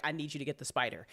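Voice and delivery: hushed, scared ask to partner; a small frightened plea, kept low; quiet plea. Retold or imitated. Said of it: "I'm like".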